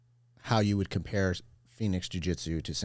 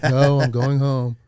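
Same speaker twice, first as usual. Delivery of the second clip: loud, high, drawn-out objection; exaggerated wail of someone refusing to admit it; mock protest; 7 semitones higher, 11 dB louder, much slower than usual. Visitor insisting he hasn't moved, loud mock protest.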